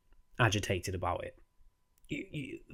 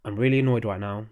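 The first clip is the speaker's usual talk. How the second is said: calm. Shown as a demonstration. Showing viewers how to calmly ask for space. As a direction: state it calmly, no raised voice. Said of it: "just say calmly in a calm expression".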